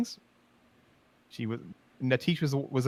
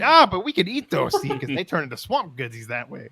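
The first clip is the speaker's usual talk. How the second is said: sly troll. Retold or imitated. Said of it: "Gormal replying to Vaca".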